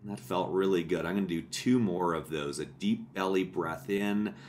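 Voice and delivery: unhurried, softened meditation guide voice; calm body-scan narration with long settling pauses; guided meditation. Real, not acted. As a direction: gently talk them through a body check, pausing between steps. Continues the guided breathing.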